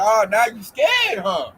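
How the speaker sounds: slow, drawn-out sneer; mocking taunt. Taunting former mockers who are now scared. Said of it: "I'm like".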